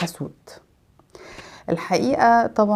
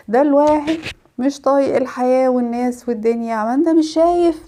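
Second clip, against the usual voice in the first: gloomy complainer voice; 4 semitones higher than usual. Retold or imitated.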